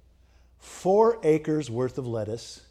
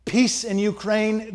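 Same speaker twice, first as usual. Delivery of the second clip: mock chant, higher and slow; higher, slow, lightly shouted slogan; retold protest shout; 7 semitones higher, 4 dB louder, slower than usual. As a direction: echo the crowd's slow chant. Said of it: "they shouted".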